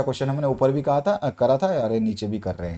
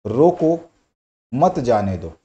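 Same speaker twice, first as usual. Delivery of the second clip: "रोको", a clear pause, then "मत जाने दो"; pause after रोको; 4 dB louder, much slower than usual. Shown as a demonstration. Teacher showing students how pauses change meaning, pause after रोको. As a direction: break right after रोको, keeping मत with जाने दो. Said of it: "तो इसको एक रुक, स्पेस के साथ बोला है".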